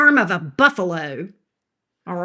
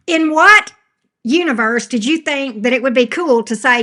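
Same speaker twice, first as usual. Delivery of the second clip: raised, incredulous telling-off; exasperated scolding; 3 semitones higher, 4 dB louder than usual. Real, not acted. Streamer going off on a viewer negating her reading, exasperated scolding. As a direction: tear into them in disbelief.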